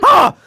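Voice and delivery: short shrieking demon yell; demon scream. Shown as a demonstration. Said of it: "But in demon voice".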